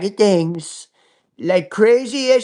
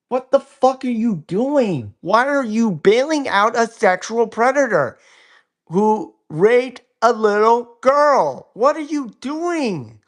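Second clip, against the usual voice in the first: exasperated, disbelieving outrage; real disgusted anger; outraged; 3 semitones higher than usual. Real, not acted. Outraged rant at Trump.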